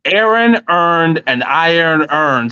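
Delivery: slow, careful demo of the line. Shown as a demonstration. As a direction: spell it out slowly for him to copy. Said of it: "say this line for me".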